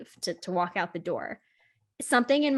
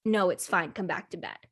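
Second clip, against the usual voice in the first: understated, lower order back to bed; imitated dismissal; 3 semitones lower than usual. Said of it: "I was like".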